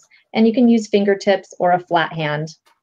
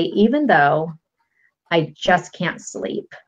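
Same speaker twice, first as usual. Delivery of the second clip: demo tapping phrase; slower than usual. Shown as a demonstration. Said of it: "you're going to say".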